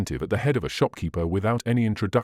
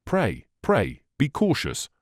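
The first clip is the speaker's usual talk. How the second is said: anxious plea; 3 semitones higher, slower than usual. A narrator's reading. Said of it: "cried Lucy".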